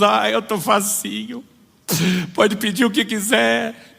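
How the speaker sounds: high, slow, meek pleading voice; a high, slow plea from a broken believer. Acted. Broken believer offering anything to Jesus.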